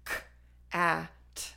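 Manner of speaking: k, a, t said as separate sounds; sounds segmented. Shown as a demonstration. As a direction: sound out each phoneme of k, a, t. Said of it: "So eventually".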